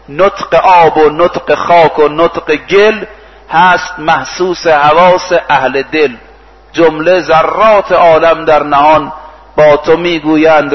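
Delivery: slow, measured verse recital; preacher reciting verse in drawn-out phrases; poetry recitation. Acted. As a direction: recite the couplets slowly, line by line. Recites a mystical poem mid-sermon.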